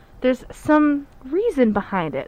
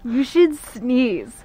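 hippie voice. Acted. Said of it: "Did you have to do the, like, the hippie voice for it?".

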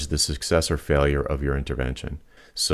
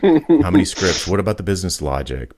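excited; 3 semitones higher, 5 dB louder than usual. Retold or imitated. Excited listing of specs.

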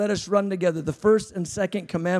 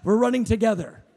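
laughing; 5 semitones higher than usual. Retold or imitated. Laughing exclamation, then calm repeat.

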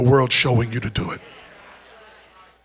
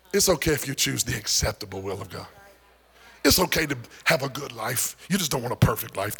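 a softer mock voice of God, lower at first; preacher mocking a lenient God, softly; 4 semitones lower, 8 dB quieter than usual. Preacher mimics God to the congregation, soft mock voice. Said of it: "As if God would be like".

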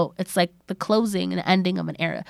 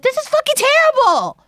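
high-pitched indignant outburst; retold outrage; 4 dB louder than usual. Viewer recounting her reaction to a death scene, outraged. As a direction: wail it in exaggerated disbelief.

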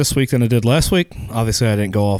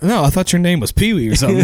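slightly higher confused voice; a hint of puzzled Ortiz; lightly voiced Ortiz; 6 semitones higher than usual.

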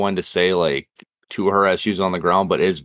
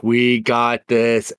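cocky; much slower than usual. Retold or imitated. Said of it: "have that cocky ass attitude".

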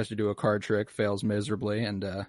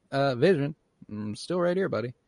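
lightly acted, higher-pitched prompting; mock awkward correction; 4 semitones higher than usual. Wanda to Vision outside the cabinet, mock awkward correction. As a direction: imitate a partner pointing out the blunder.

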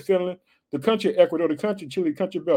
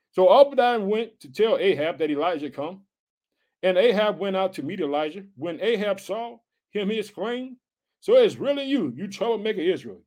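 scripture reading; 3 semitones higher than usual. Acted. Scripture reread in sermon.

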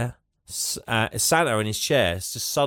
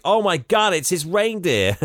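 high acted amazement; awestruck excitement; 7 semitones higher than usual. Old man marvels at sleigh bells.

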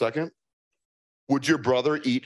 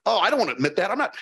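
dawning realization; faster than usual. Retold or imitated. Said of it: "I'm like".

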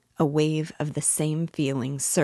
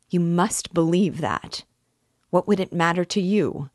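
louder, insistent, a sort of despair; raised voice, pleading to be believed; despairing cry; 4 semitones higher, 6 dB louder than usual. A narrator's reading. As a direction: cry out in restrained desperation. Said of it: "he cried a moment later with a sort of despair".

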